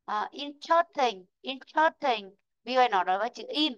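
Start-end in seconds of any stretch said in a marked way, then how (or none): 0.3-2.3 "interesting" at speaking pace, middle vowel swallowed; normal pace. Shown as a demonstration. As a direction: say "interesting" quick, reduced to three syllables. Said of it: "đọc ra âm ớ rồi".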